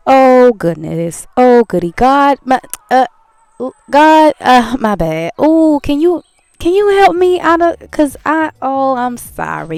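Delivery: high, loud panicked plea; hammed-up begging for help; acted distress. Acting out her crying in the car, loud high panicked plea.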